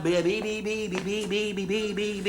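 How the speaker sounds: stuck stammering on the first syllable; comic stutter. Acted. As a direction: rattle the syllable out over and over, unable to finish. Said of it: "When he starts stuttering".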